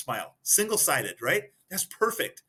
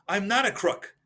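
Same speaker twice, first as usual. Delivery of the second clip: Nixon's denial; 6 semitones higher than usual. Retold or imitated. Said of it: "He goes".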